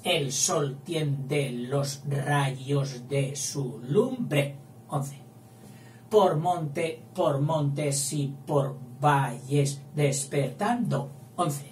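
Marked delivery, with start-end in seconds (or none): 0.0-4.5 reciting the line slowly, syllable by syllable; slow scansion of Garcilaso; slow verse reading. Shown as a demonstration. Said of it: "míralo". 6.1-11.1 recited slowly to count syllables; slow scansion reading; slow verse reading. Shown as a demonstration. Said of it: "míralo".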